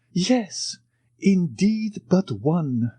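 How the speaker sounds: sighing. A narrator's reading. The major sighs to the count, mildly sad. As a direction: let a small sigh colour it. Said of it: "said the major with a sigh".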